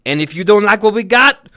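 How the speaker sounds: a hint of a carnival barker; imitating movie barker. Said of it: "he's introducing everybody".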